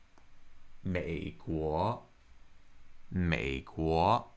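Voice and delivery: "美国" drawn out, low, then rising; third tone, second tone. Shown as a demonstration. Teacher repeating for learners, slow low-then-rising "美国". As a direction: sink low on 美, climb on 国 in "美国". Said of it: "That's third tone, second tone".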